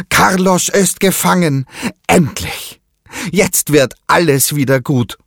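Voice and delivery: put-on high, bright burst of pirate-boy joy; overjoyed boy. A narrator's reading. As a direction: cheer it out like the long wait is over. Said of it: "freut sich der Piratenjunge".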